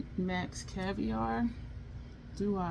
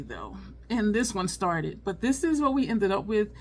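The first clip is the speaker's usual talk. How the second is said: ordinary talk, nothing marked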